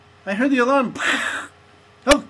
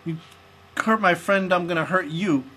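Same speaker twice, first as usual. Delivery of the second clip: lower, gruff-sounding action-hero taunts; tough agent voice; 7 semitones lower than usual. Pretend. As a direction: taunt the ghost like a movie hero. Plays tough ghost-hunting agent.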